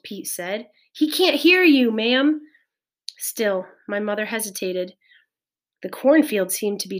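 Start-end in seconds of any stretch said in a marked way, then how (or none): 0.9-2.4 high, loud insistence; raised, pleading urgency; urgent call. A narrator's reading. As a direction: press her over the storm. Pete urging mother during alarm.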